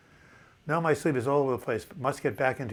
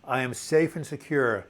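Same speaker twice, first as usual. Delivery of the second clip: calm affirmation; slower than usual. Shown as a demonstration. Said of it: "Just keep to yourself over and over again".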